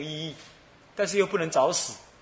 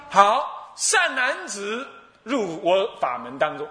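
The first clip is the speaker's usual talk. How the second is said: solemn Buddha; 3 semitones higher, much slower than usual. Acted. Buddha solemnly admits the monk.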